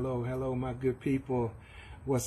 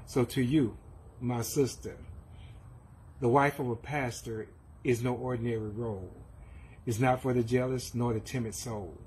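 measured, solemn poem read with pauses between lines; a church member reading a tribute poem to the pastor; poem recitation. Acted.

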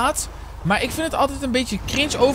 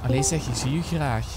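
put-on Flemish accent; 6 semitones lower, 4 dB quieter than usual. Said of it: "vergelijkt met Vlaams".

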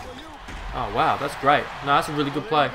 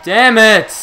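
loud, higher curse spat out; angry outburst; 4 semitones higher, 11 dB louder than usual. Real, not acted. Gamer cursing his own mistake, loud angry outburst. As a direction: blow up at the screen. Missed play in game.

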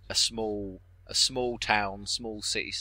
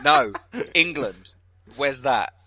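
laughing mock Texan; 6 semitones higher, 10 dB louder, much slower than usual. Retelling confused Texan, laughing.

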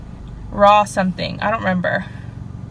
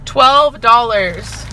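very slow, usual pitch; rueful disbelief; 3 dB louder, much slower than usual. Real, not acted. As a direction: draw each word out heavily. Repeating the price, rueful.

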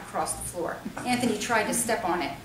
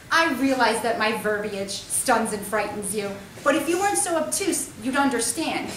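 mock superior; 4 dB louder than usual. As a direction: pretend haughty, savouring each word. Sister teasing back.

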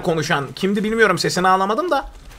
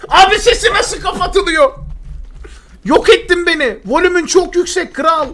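much higher, laughing; laughing disbelief; 10 semitones higher, 4 dB louder than usual. Real, not acted. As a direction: crack up at the loud stranger. (gülerek şaşkınlık)

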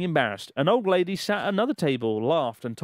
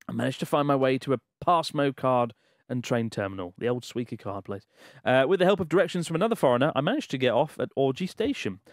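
measured, emphatic letter-reading voice; story read-aloud. Acted. Host reading a listener's Japan travel story aloud, dramatic narration.

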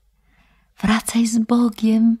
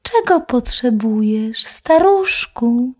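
thin little voice. Acted. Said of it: "swym cienkim głosikiem".

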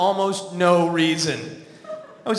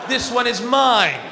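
louder, put-upon rant; mock indignant outburst; 3 dB louder than usual. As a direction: protest loudly like a fed-up worker claiming what's owed. Defiant speech over the bear's treat.

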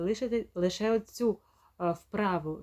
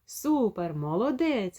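mild praise; slower than usual. Retold or imitated. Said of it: "Похвалили дитину".

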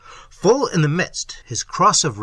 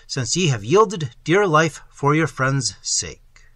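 solemn herald; 4 dB louder than usual. Acted. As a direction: intone it like a herald at court. Herald speaks in archaic ceremony.

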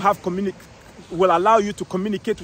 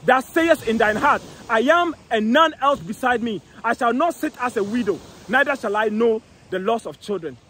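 1 scripture reading; 2 semitones lower than usual. Acted. Reading scripture aloud, lower.

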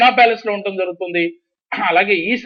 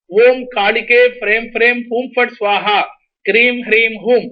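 measured demonstration of a mantra; mantra recitation; 3 semitones higher than usual. Shown as a demonstration. Numerologist teaching a mother a mantra for her son, reciting. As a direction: recite each sacred syllable firmly for the caller. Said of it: "ఏ మంత్రం చేయాలో ఇప్పుడు చెప్తాను".

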